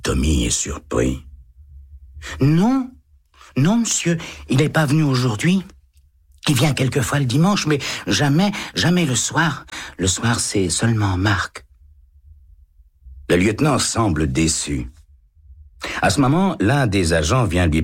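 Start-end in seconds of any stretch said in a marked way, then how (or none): 2.4-11.6 put-on much higher, quick child's protest; a startled boy insisting; surprised little boy. A narrator's reading. Tommy protests to the lieutenant, high surprised child voice.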